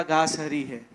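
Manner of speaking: a smiling king quietly settling it; wise lion king. Acted. शेर राजा चीते से मुस्कुराकर, धीमी गहरी आवाज़ में.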